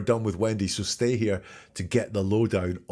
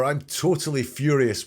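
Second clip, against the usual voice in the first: overstated fury; 5 semitones higher, 3 dB louder, slower than usual. Shown as a demonstration. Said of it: "when you're a little bit mad".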